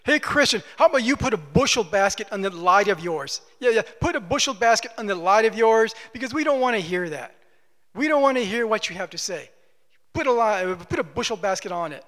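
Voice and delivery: lightly voiced taunting critics; a hint of hecklers jeering at the Christian; mocking opposition. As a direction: sneer it like a scoffing crowd. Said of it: "they sound like this".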